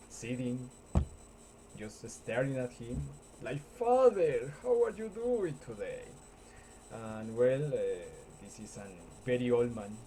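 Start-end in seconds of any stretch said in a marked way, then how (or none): 3.8-6.0 high, loud mock greeting to father; mock old man greeting. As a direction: call out brightly to father. Old man voiced in scene.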